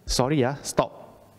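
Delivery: slow, unsure apology before the stop; half-hearted stop that asks forgiveness; hesitant apologetic stop. Shown as a demonstration. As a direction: trail off sheepishly on Sorry, uh, stop. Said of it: "You say".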